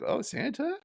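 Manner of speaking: put-on high hopeful little girl voice, lightly done; Lisa. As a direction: float it up like a wondering child. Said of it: "she's like".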